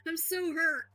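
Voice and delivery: mock-wounded through a laugh; sarcastic hurt. Brushing off an insult from a clip, laughing and mock-wounded. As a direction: pretend to be hurt while laughing at him. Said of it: "a loser who loves to attack women".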